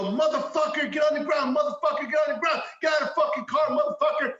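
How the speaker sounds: high, loud, forceful command yell; police yelling. Retold or imitated. Suspect imitating officers making an arrest, high urgent shouting.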